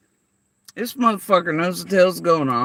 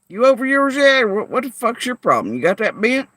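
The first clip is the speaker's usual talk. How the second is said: angry call-out; 7 semitones higher, 4 dB louder than usual. Real, not acted. Calling out viewers angrily.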